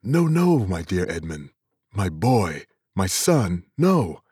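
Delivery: high, loud cries of joy; overwhelmed with emotion. Acted. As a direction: voice leaping up with shock and joy. Father overcome seeing his son.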